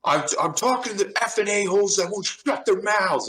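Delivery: high, sneering put-on voice of the gunner; a high, sneering quoted comeback; mimicked rude retort. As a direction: play the snotty gunner talking back.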